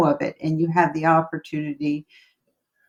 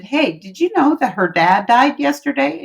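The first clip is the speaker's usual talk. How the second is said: raised, urgent question to the manager; pitched-up urgent news to the manager; urgent telling; 7 semitones higher, 3 dB louder than usual. Retold or imitated. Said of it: "I went to the manager and I said".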